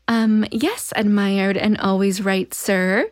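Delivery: lightly voiced alien playing seductress; measured, mock-formal reading as the alien; a hint of stilted alien flattery; alien's seductive voice. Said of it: "trying to seduce him from the alien's voice".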